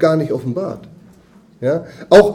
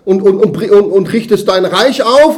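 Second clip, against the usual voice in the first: eager apostles; 4 semitones higher, 5 dB louder than usual. Retold or imitated. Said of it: "Die haben ihn ja noch gefragt".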